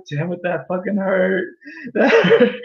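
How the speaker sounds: half laughing, half crying in mock pain; hammed-up wounded cry; mock hurt. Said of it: "But they're gonna be like".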